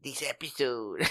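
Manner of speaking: put-on a weak, half-hearted Spanish accent on "This episode". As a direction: try a Spanish accent and barely manage it. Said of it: "I can read it in a Spanish accent".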